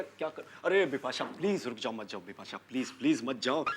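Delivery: implore, voice dropping away; pleading. Acted. Husband begs his wife not to leave, pleading.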